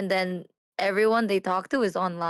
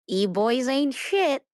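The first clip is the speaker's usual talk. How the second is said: slow mocking verdict; 2 semitones higher, slower than usual. Teasing verdict to chat.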